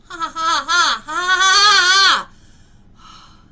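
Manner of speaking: loud, slow, high ha-ha laughter; laughing. Real, not acted. Healer laughing out loud at the stuck belief. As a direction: let big laughs roll out slowly.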